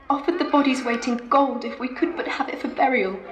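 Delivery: tragic heroine sorrow. Acted. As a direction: let the grief stay in the voice. Edith's grieving account continues.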